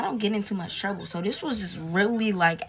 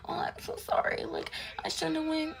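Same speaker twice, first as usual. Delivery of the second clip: mock crying; 8 semitones higher, 5 dB quieter than usual. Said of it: "She crying in my arms".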